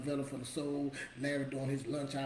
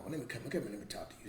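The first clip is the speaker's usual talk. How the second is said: low, soft grandma summons; 3 semitones lower, 4 dB quieter, faster than usual. Retold or imitated. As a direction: lightly imitate a grandma calling a child over. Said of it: "You know, like the grandma".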